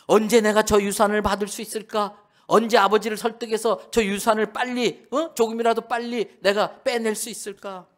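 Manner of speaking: the impatient son plotting for his share; scheming younger son. Acted. Younger son scheming over inheritance. (유산만 노리는 둘째 아들의 조급한 혼잣말)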